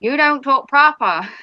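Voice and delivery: light Norfolk accent imitating local speech; a hint of Norfolk dialect. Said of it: "sort of thing".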